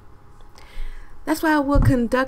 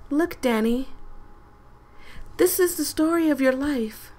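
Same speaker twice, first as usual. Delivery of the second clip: voicing the game lady; 2 semitones higher than usual. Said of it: "I feel like she sounds just like this".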